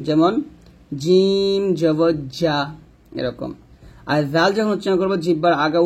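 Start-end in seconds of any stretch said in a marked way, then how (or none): 1.0-2.6 slow জিম, mid-tongue to palate; long hard j in জিম and জা; palatal jim. Shown as a demonstration. Teacher placing mid-tongue for learners, palatal jim. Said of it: "জিহ্বার মধ্যখান".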